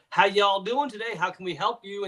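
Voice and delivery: a hint of a Southern gas-station clerk greeting; Southern accent. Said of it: "And they have a very deep Southern accent".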